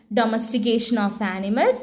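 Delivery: very slow, word by word, for writing down; slow dictation. Shown as a demonstration. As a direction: dictate each word slowly so they can write. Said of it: "അപ്പൊ എന്തൊക്കെ എഴുതണം?". (എഴുതിയെടുക്കാൻ പതുക്കെ പറയുന്നു)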